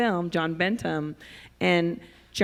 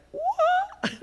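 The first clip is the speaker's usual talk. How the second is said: high, loud swoop of surprise; startled; 6 dB louder than usual. Acted. Speaker acts out a sudden change of track, startled. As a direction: leap right up in pitch, acting thrown off.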